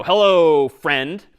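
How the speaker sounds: loud, stretched-out greeting with sarcasm; sarcastic. Shown as a demonstration. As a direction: lean hard on the sarcastic hello. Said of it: "maybe I'm being a little sarcastic here".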